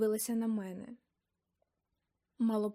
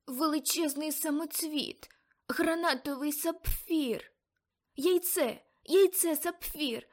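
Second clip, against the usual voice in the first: higher, dreamy trance voice, growing excited; entranced visions; 5 semitones higher than usual. Acted. Aunt in a trance describing her vision, higher and dreamy. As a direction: speak as if seeing a vision.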